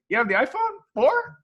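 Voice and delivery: an actor thrilled to spot the same phone; mock excited question.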